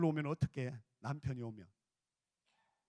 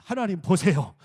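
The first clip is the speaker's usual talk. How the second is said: loud congregational lead-in; first loud call; 12 dB louder than usual. Shown as a demonstration. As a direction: call it out for them to repeat. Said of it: "크게 합시다". (따라 하도록 크게 선창)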